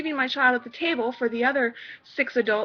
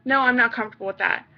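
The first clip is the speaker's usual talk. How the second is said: flat refusal; 2 semitones lower, faster than usual. Shown as a demonstration. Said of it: "flat out fucking no".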